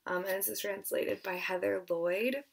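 breathless, airy voice; out of breath, half whispered. Real, not acted. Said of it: "I don't know why I'm so out of breath right now".

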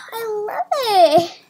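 laughing with delight. Real, not acted. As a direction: giggle through it happily.

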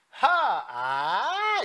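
"하, 아" joined too slowly by sound alone; wrong way demo. Shown as a demonstration. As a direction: show the mistake, drawn out. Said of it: "이렇게 하려고 하지 마라". (틀린 예시로 느리게 이은 "하, 아")

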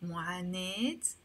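"معاناة" ending in eh plus t, mu'anet; Lebanese T ending. Shown as a demonstration. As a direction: close "معاناة" on a long e and a t. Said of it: "In Lebanese Arabic, we say".

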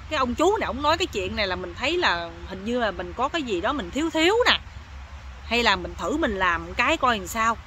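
lightly acted inner musing; mildly puzzled private reasoning; pondering to himself. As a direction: think it over, half to yourself. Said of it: "ảnh ngồi ảnh suy nghĩ".

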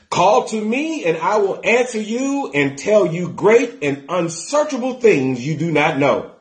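emphatic, drawn-out scripture reading. Real, not acted. Preacher reads God's promise to the congregation, proclaimed scripture reading. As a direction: proclaim the verse, starting high and settling down.

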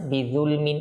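বিযুলমিন with a thin, light "th" as in "this"; wrong light dhal. Shown as a demonstration. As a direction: mispronounce বিযুলমিন with unemphatic dhal. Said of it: "এটাও ভুল হবে".

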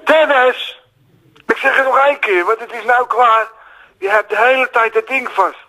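exasperated telling-off, calling out the name; scolding. Real, not acted. Caller breaking off to tell off his friend Dennis, scolding. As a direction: scold someone in the room mid-call.

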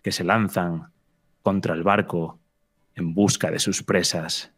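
measured scene-setting with dramatic pauses; storyteller's suspenseful delivery; game master narration. Acted. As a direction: narrate the monster's arrival phrase by phrase.

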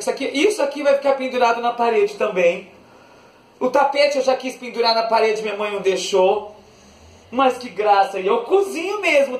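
ordinary talk, nothing marked

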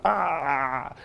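drawn-out "aah" of being burned; imitated pain cry. Cry at the hot plate.

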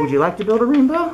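leprechaun voice. Acted.

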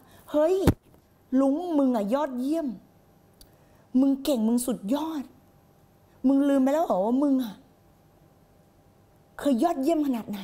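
rough pep talk. Pretend. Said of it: "ไม่ เราคงพูดกับตัวเองว่า".

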